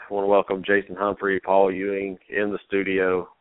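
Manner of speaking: short of breath, slightly wheezy; wheezy voice, struggling for air. Real, not acted. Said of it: "if I sound like I can't breathe".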